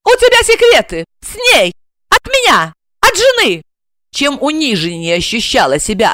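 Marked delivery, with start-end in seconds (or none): 0.0-3.6 jealous outburst. Acted. Jealous wife accuses husband.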